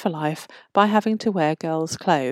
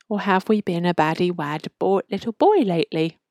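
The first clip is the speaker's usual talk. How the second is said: lightly voiced kindly Santa, lifting on "little boy". A narrator's reading. Grotto Santa teasing troublesome Alex, lightly put-on kindly voice. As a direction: put on a touch of kind Santa. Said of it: "in my best kind Santa voice".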